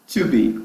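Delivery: slow "to be" as chew-BEE; careful, slowed "to be", tchu-bee; correct pronunciation. Shown as a demonstration. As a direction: model "to be" with a "tchu" start. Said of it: "Chame de".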